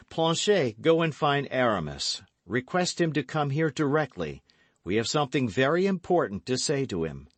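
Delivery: loud, high, brisk hero; confident gallant young man. A narrator's reading. D'Artagnan replies, gives orders.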